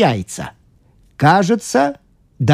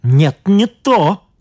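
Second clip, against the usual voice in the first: objecting scientist; 6 semitones higher, slower than usual. A narrator's reading. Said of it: "возразил учёный".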